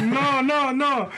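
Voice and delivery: high mock denial; squeaky no no no; her denial. Mimicking the passenger insisting no, pitched high. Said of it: "She like".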